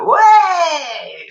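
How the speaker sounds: laughing, high mock outburst; laughing imitation. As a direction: burst out mid-laugh as him. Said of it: "Ian was like".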